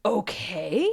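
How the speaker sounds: drawn-out questioning okay; voice of the emotion. Acted. Emotion replying to your okay, doubtful question. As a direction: let okay climb slowly, unconvinced. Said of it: "And then the emotion says".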